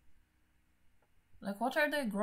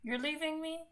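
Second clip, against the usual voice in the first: hammed-up abandoned whine, much higher; mock dismay; 12 semitones higher, 5 dB louder than usual. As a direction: cry out playfully as if being abandoned. Mock upset at being left.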